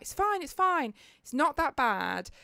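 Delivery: bright, high mock reassurance; imitating chirpy friends; reassuring friends. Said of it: "And like".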